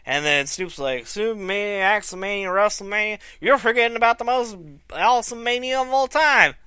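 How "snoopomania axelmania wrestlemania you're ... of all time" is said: imitating a rapper. Fan mimicking how the rapper talks to Axel, lightly voiced. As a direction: slip into a lazy rapper cadence. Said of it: "That's how the rapper talks".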